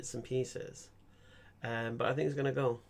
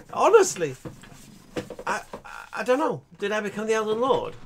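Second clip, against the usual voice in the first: louder, higher, still laughing; laughing disbelief; 6 semitones higher, 8 dB louder than usual. Real, not acted. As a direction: speak through leftover laughter.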